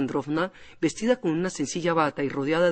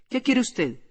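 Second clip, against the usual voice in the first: quick deep voice; 7 semitones higher, slower than usual. A narrator's reading. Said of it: "con voz rápida y profunda que no era la suya".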